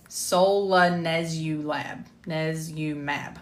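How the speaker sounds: solanezumab slowly, retrying its last part; struggling pronunciation. Real, not acted. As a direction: feel your way through solanezumab. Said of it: "I'm gonna struggle with saying it".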